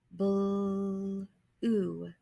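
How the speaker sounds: Bl and oo said as separate sounds; sounding out. Shown as a demonstration. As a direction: segment each sound apart.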